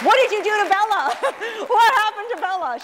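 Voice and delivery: high, amazed disbelief; amazed counselors. Retold or imitated. Prison counselors marvelling at the changed inmate, amazed. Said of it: "the counselors at the prison".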